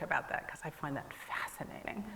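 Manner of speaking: laughing. Real, not acted. Laughing aside after joke.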